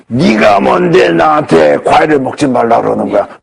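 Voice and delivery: slow, menacing voice of a monster, lightly done. Retold or imitated. Patient turns on the doctor over the phone, slow monster voice. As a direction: drag it out like something inhuman turning on you. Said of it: "목소리가 변해. 괴물 목소리로".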